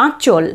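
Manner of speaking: আঁচল with a nasalised আঁ; আঁচল, নাসিক্য আঁ দিয়ে; nasal আঁ. Shown as a demonstration. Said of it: "আয়ের উচ্চারণ এখানে নাসিক্য".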